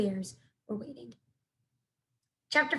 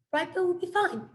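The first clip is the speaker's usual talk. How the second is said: friendly voice; 7 semitones higher than usual. A narrator's reading. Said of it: "using a friendly voice".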